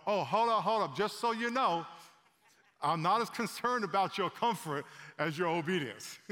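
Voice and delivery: loud, high call of hold up; God cutting in from the background; playful booming God interjection; God interrupting. Pretend. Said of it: "God was in the background going".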